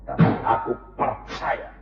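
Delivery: low, soft surrender; quiet trusting prayer. Acted. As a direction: whisper your faith to God. Prayer ends in quiet faith.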